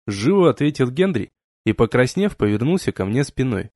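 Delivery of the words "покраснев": plain reading voice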